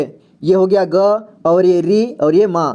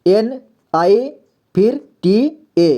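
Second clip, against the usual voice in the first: letters spelled out slowly; slow spelling; 2 semitones higher, slower than usual. Shown as a demonstration. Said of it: "ए लिखा मैंने अ और नीता". (अक्षर धीरे-धीरे बोलते हुए)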